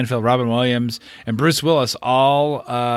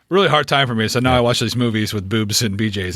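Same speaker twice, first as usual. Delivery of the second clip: quoting a friend. Retold or imitated. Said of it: "as Damien said".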